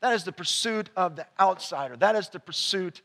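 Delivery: soft reflective preaching. Acted. Pastor gently closing his sermon to the church, soft and intimate. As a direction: draw them in with a quiet voice.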